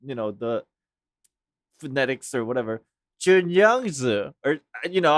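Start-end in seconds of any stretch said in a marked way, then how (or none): 3.2-4.3 "Junyangzi" slowly, with Chinese sounds; attempted Chinese pronunciation. Shown as a demonstration. Trying their best to say it proper, slow Chinese-style "Junyangzi". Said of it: "pronounce the name in the Chinese".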